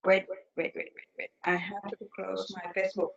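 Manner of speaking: usual speaking voice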